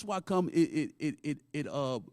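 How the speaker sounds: slow drawn-out cartoon dad voice; Peter Griffin. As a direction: drag out the words like a sitcom dad. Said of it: "Shout out to, uh, to Peter".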